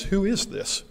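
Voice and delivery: God failing to recognize someone, lightly voiced; questioning God. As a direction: ask it softly, as if at a stranger. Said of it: "He looks at this man and says".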